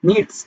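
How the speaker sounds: "needs" said alone with an audible final s; "needs" ending in a d-s cluster; final S sounded. Shown as a demonstration. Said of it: "এস এর মতো লাস্টে উচ্চারণ করব".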